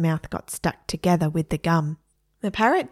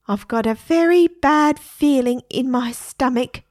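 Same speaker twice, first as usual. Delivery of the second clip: nervous parrot; 5 semitones higher, 5 dB louder than usual. A narrator's reading.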